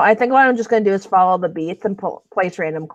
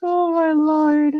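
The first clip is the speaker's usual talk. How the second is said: laughing; 8 semitones higher, much slower than usual. Real, not acted. After laughing fit.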